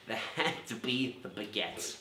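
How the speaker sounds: a hint of the rumpled detective, slow and musing; lightly voiced Columbo slowly unpicking the alibi; Columbo impression. Detective cornering the suspect with baguette logic, mild Columbo drawl. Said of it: "That's the end of my Columbo episode".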